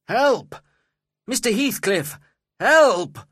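high, loud cry for rescue; shouting for help. A narrator's reading. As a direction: shout desperately for someone to come. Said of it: "I shouted".

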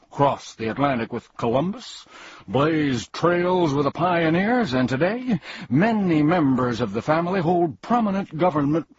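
boastful humbug. Acted. Humbug boasting to Milo of his noble family, pompous. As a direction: brag grandly about the family.

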